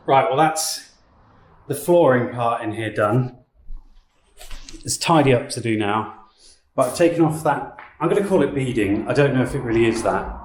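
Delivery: echoey empty room; speaking in a big bare hall. Real, not acted. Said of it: "Sorry about the echoiness".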